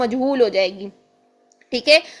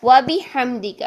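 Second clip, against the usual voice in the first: slow devotional recitation; measured prayer recitation; much slower than usual. Shown as a demonstration. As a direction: chant سبحانک اللہم و بحمدک slowly. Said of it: "ہم اس میں پڑھتے ہیں".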